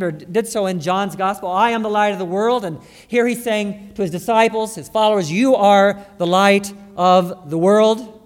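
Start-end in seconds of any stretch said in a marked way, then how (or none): 1.5-8.2 quoting scripture with weight; emphatic quoting. Acted. Contrasting Jesus's two sayings.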